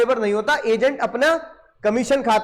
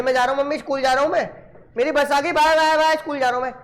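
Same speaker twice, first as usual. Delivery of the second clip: lightly voiced excited kid, bye bye; student imitating a little boy heading out to school; child leaving for school; 2 semitones higher, faster than usual.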